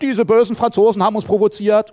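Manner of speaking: mock indignant complaint; mock accusation. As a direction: blame the other side, lightly acted. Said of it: "Die Deutschen haben gesagt".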